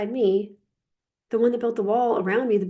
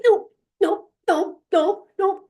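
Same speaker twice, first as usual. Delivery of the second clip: high, louder snappy nopes; mock brushing off; 10 semitones higher, 4 dB louder, slower than usual. Coach acting out pushing down softness, snappy high nopes. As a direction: swat each one away like whack-a-mole. Acting out whack-a-mole with feelings.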